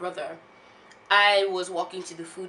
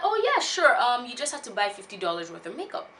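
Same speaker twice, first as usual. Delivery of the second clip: sales clerk; 4 semitones higher than usual. Retold or imitated. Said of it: "he's like".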